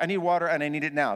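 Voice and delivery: fast, pressing demand; urgent demand. Retold or imitated. Pastor demanding water from his wife, fast and urgent. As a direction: say it fast and insistent. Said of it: "my tone of voice is like".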